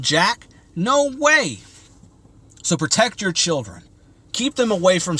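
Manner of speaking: rising into real outrage, pitch climbing; fired up rant. Real, not acted. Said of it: "but I am fired up".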